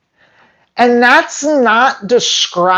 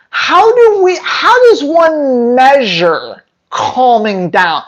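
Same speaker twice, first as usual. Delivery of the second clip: much higher, slow, strained incredulity; incredulous; 4 semitones higher, slower than usual. Real, not acted. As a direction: demand it in disbelief. Mocking challenge to vet.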